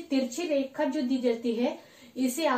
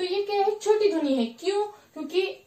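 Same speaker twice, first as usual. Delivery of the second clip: higher questioning tone; 7 semitones higher than usual. Shown as a demonstration. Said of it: "देखो आप".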